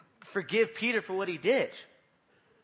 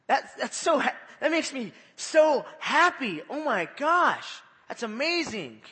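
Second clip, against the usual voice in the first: much higher, much louder joyful shout; overjoyed believer; 8 semitones higher, 7 dB louder, slower than usual. Retold or imitated. Preacher acting a believer thrilled to be saved, shouting. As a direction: burst out with the thrill of being saved. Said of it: "You're like".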